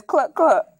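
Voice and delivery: short imitation clucks; hen cluck. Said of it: "The hen says".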